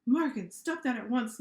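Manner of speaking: teacher monster scolding his pupil, stern; stern order. Acted. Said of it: "Mister Z ordered".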